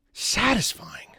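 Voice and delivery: slow whisper of satisfying; soft, savoring whisper. Real, not acted. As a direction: breathe out satisfying. Savoring word softly.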